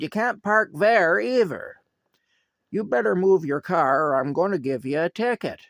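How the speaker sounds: high, loud threat, slowed at the start; mock-angry parking cop yelling a threat; angry order. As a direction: lay down the law, furious. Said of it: "comes charging over to him mad".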